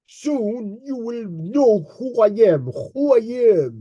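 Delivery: lightly exaggerated Russian accent; teasing take on a Russian accent; mock Russian accent. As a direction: mimic his boast in a Russian accent. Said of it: "He has to talk like this".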